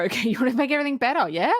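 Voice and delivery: fast, laughing mock repeat; quick giggling repeat of the taunt; laughing mockery. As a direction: laugh through the taunting echo. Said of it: "And the woman's like".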